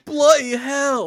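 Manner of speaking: put-on loud, high, slow British accent; drawn-out hammy British exclamation. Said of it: "Give me your best British are coming".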